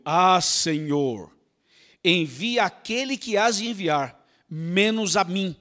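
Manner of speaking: drawn-out, very slow sigh of reluctance; slow weary plea; slow reluctant plea. Acted. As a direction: drag the words out unwillingly. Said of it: "Ele, porém, respondeu".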